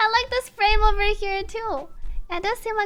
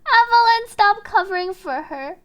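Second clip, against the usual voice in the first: loud, raised-pitch angry call; booming director's shout; 8 dB louder than usual. Acted. Director interrupts them to scold Evelyn, booming shout. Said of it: "a deep booming shout interrupts their conversation".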